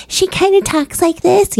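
high-pitched moaning character voice; Debris voice. Retold or imitated. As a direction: put on a high, Moaning Myrtle-like voice. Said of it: "a moaning Myrtle voice".

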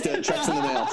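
chuckling through a joke promise; amused, laughing reassurance. Real, not acted. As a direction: say it while laughing at yourself. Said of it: "joking promise".

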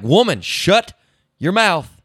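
mock exasperated telling-off, pitched high; high, hammed-up irritation; retold mad husband. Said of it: "I'm getting mad".

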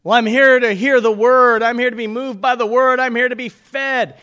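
loud, rising preacher emphasis; rising pulpit fervor; emphatic. Real, not acted. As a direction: declare it with force.

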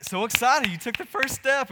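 high, loud delighted praise; excited cheering. Retold or imitated. Parent cheering baby's first step: high loud excitement. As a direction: cheer the baby on.

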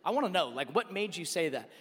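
low, soft, earnest question; retold quiet exasperation; subdued frustration. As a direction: drop your voice and plead for an honest answer. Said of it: "I was legitimately frustrated".

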